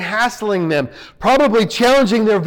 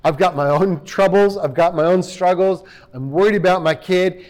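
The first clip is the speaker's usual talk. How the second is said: apologetic; 3 semitones lower than usual. Retold or imitated. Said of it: "the father almost sounds apologetic".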